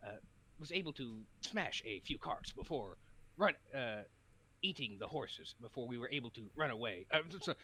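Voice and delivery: a hint of earnest anime hero; earnest determined anime hero. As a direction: play it noble and sure. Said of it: "He's doing the anime protagonist voice".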